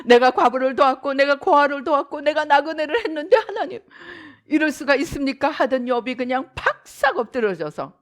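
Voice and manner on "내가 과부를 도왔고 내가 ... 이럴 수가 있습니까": mock proud Job. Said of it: "그 잘났던 욥".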